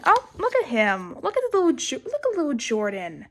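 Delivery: fond little coo. Real, not acted. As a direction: gush over him like a cute pet. Cooing over cute drawing.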